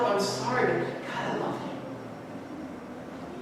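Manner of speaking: slow, low, nearly whispered "I love you"; a humbled man owning his failure; contrite confession. Retold or imitated. Peter answering Jesus, slow and broken.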